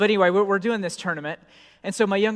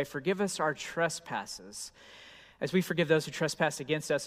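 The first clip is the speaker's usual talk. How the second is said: traditional liturgical recitation; 2 semitones lower, 6 dB quieter than usual. Shown as a demonstration. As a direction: recite it like a churchgoer at a funeral. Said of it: "you might have prayed it this way".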